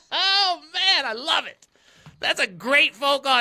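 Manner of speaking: high squealing laugh through the words; laughing hard. Real, not acted. Host laughing hard at the caller's Sam's son pun. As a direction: crack up at the joke.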